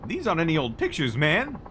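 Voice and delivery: high, loud, gushing photographer voice; an over-eager paparazzo spotting his big shot; excitable photographer. Acted. Mac voice again.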